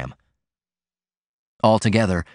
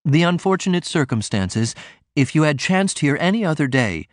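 suave; 6 semitones higher than usual. A narrator's reading. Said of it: "Mister Ford began suavely".

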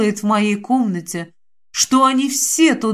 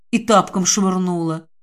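usual speaking voice

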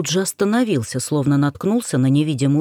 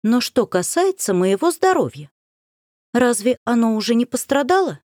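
put-on goody-goody girl tone; 5 semitones higher than usual. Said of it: "тем же тоном пай-девочки продолжила".

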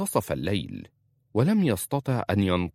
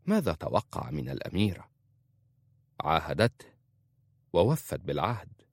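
plain reading voice

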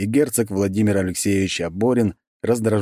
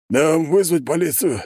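higher-pitched tentative question; cautious inquiry; 9 semitones higher than usual. A narrator's reading. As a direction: ask the boss carefully. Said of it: "осторожно поинтересовался Зарубов". (осторожно, повыше, с вопросом)

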